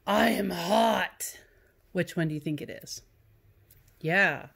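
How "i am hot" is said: slow, drawn-out exclamation; exclaimed. Shown as a demonstration. Teacher demonstrates the exclamation-point reading to students, drawn out. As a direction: stretch it out like you're overheated. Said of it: "Exclamation point".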